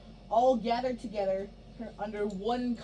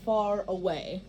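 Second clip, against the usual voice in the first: storybook narration; slower than usual. Shown as a demonstration. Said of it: "and our final line".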